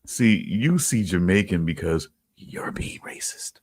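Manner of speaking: slow, hushed conspiratorial whisper. Real, not acted. Accusing cohost of racism in a slow whisper. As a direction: lean in and whisper it slowly.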